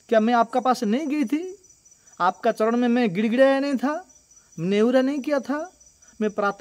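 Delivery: a wronged princess lightly pressing her rebuke; reproachful Draupadi. Acted. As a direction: confront the elder with hurt reproach. Draupadi rebukes Bhishma in court.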